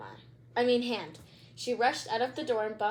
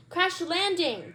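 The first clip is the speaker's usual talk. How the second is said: sputtering; 7 semitones higher, 4 dB louder than usual. Acted. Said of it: "Judy sputtered".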